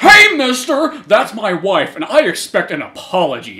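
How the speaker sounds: high, slow, lightly voiced prissy husband; a huffy yuppie confronting; indignant husband. Yuppie husband demanding an apology, high huffy.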